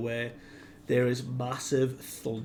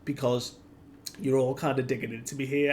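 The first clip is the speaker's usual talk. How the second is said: lightly voiced cartoon hero, higher and louder; Luffy; 4 semitones higher, 5 dB louder, faster than usual. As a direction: pipe up with a casual, high-pitched complaint. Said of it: "we hear Luffy's voice just go".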